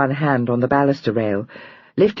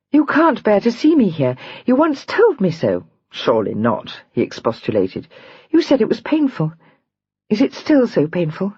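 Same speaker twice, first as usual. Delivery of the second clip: reproachful; 4 semitones higher than usual. Acted. Julia reproaching Adam, near hysterics.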